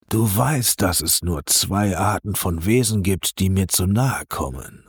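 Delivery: calm on top, deadly underneath; calm, dangerous coldness. Acted. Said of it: "sein Tonfall ruhig, aber mit gefährlicher Kälte". (ruhig, gefährlich kalt)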